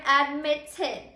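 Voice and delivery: "admitted" in separate syllables, ad-mit-TED, end stressed; stress on final syllable. Shown as a demonstration. Teacher letting class hear the accent, deliberate syllable stress. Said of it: "accented syllable is also at the end".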